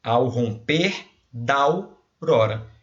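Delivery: slow, linking ao and da into one beat; slow joined syllables. Shown as a demonstration. Teacher to class, showing how the syllables join. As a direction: run "Ao romper da aurora" together, drawn out. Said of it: "você fala junto".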